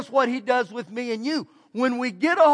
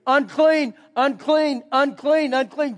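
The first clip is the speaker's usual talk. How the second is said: mock leper's call of unclean, louder at first then fading; calling out a warning; 2 semitones higher, 3 dB louder, slower than usual. Leper calling a warning to people approaching, mild mock yell fading. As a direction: call out a warning, dropping off each time. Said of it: "I would start having to yell out".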